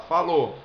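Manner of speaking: "falou" ending on a closed, rounded O; closed final O. Shown as a demonstration. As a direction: close the vowel at the end of "falou". ("falou" com O final fechado)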